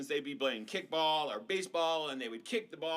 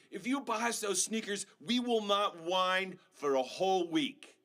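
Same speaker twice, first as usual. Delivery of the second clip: put-on bargaining kid; 3 semitones higher, 3 dB louder than usual. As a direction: make the deal like a pleading kid. Kids bargaining with mom.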